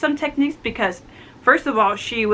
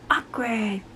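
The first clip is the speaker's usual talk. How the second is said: soft, slow gasp into awkward; drawn-out awkward whisper; awkward aside; 7 dB quieter than usual. Real, not acted. Viewer reacting to the brothers fighting, soft awkward aside.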